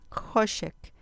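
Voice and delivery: "hoshek" stressed on HO, falling after; stress on penultimate syllable. Shown as a demonstration. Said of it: "acento en la penúltima sílaba". ("hoshek" con el acento en "ho")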